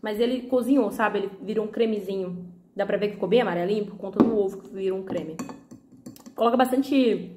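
talking with mouth full; words round a bite of food. Real, not acted. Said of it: "falando com a boca cheia".

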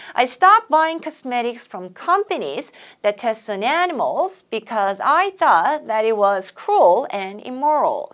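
slow choral model read; reading together with class. Shown as a demonstration. Teacher leading students in unison, slow read. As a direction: lead the class through the line slowly. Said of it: "시작".

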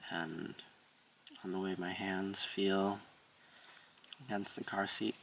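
soft, unhurried meditation voice; softly, as if easing into a breath; quiet meditation. Real, not acted. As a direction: settle into stillness, speaking softly with long pauses.

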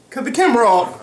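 loud, sudden yell. Real, not acted.

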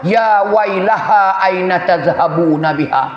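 slow, drawn-out Arabic recitation; measured chant-like quotation; reciting hadith. Acted. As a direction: recite it slowly, stretching the long vowels. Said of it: "Lafaz hadis kamu baca tu".

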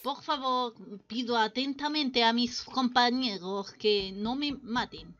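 put-on formal plea in a French accent. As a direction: plead politely, Spanish with a French accent. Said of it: "Hablar así es muy difícil". (súplica con acento francés fingido)

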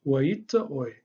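"Waita oi" rising through the phrase, then dropping off at the very end; question intonation. Shown as a demonstration. Teacher showing the question tune of "Waita oi". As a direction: lift "Waita oi" and let it fall on the last sound. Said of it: "It kinda goes up and then drops off right at the very end".

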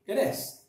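it is run together as id-is; linked flap T. Shown as a demonstration. Teacher showing Americans linking it is. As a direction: link it is with a tapped t. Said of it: "American pronounce it like this".

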